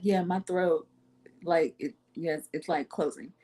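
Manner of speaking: calm as day, trailing softly. Retold or imitated. Confirming to a worried friend that her throat is closing, very calmly. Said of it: "I said it just as calm as day".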